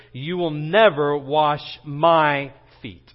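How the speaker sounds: slow, deliberate stress on "my". Retold or imitated. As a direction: draw the line out and lean on "my". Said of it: "You might emphasize the word "my".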